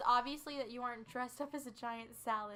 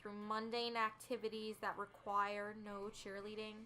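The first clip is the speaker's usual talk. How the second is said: anti-customer service voice; 2 semitones lower, 3 dB louder, slower than usual. Acted. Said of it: "this is the anti-customer service voice".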